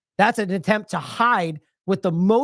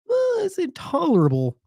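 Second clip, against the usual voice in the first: much higher prissy mock voice; mock reluctant politician; 10 semitones higher than usual. Commentator mocking the British prime minister, in a prissy high voice. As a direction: parody a leader saying the bare minimum. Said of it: "So he has to go".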